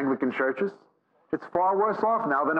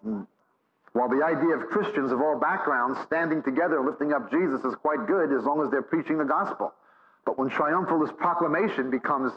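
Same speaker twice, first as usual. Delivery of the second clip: ordinary talk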